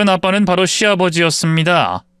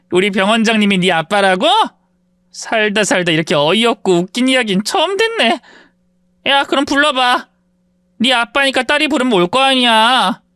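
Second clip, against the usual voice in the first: a touch higher, goading; taunting classmate; 6 semitones higher than usual. Acted. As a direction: dare her to call. Classmate taunts her to call.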